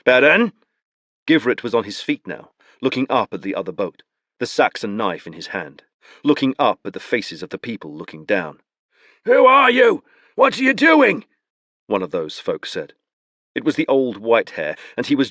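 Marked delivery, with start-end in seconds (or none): 0.0-0.5 alarmed call. Acted. Givret calling alarmed. 9.2-11.2 put-on challenging old man.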